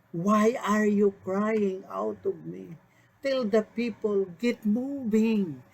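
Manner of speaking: slow, commanding voice of God, lightly voiced; a hint of divine command, slowed down; voicing the Lord. Pastor quoting the Lord rebuking Moses, mild stern urging. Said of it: "said to Moses".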